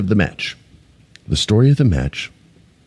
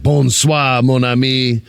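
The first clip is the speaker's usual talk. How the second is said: mock French; 4 semitones higher, slower than usual. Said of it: "It's probably in French".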